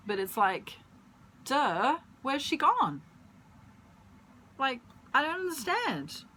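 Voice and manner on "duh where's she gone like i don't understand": higher, dim-witted mock confusion; dopey voice. Imitating the clueless ex in a dopey higher voice. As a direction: play him as a clueless dope. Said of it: "he's called Dopey".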